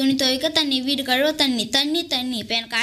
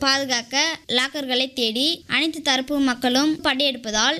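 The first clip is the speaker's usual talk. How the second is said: formal, emphatic newsreader delivery; news read; 2 semitones lower than usual. Acted. Reading the future newspaper's water-robbery headlines to the village, formal news read.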